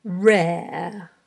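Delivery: long drawn-out word, carefully dictated; slow dictation. Shown as a demonstration. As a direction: stretch the word out for learners writing it down. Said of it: "read ten words aloud slowly".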